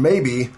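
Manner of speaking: "maybe" drawn out slowly; slow, heavily weighted "maybe"; stress on "maybe". Acted. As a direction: lean on the word "maybe". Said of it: "I can't stress that word enough".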